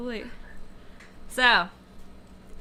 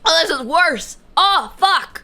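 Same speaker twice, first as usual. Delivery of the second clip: pained groaning; 4 semitones higher, 5 dB louder than usual. Real, not acted. Chili burn getting worse.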